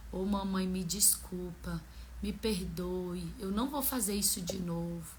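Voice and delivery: soft, low imitation of a sorry child; retold apology. Son hugging his mother after their fight, retold soft apology. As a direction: gently imitate a child pleading for forgiveness, slowing on the plea. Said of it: "Aí ele veio me abraçando".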